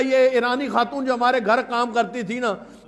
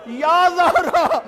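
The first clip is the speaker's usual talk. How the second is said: slow calling; much slower than usual. Retold or imitated. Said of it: "کہتی ہے".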